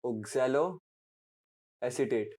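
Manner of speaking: slow dictation. Shown as a demonstration. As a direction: stretch each syllable of oxaloacetate out very slowly. Teacher drawing out term. (बहुत धीरे, शब्द खींचकर बोलना)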